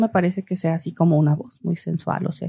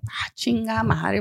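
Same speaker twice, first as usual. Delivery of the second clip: ordinary talk, nothing marked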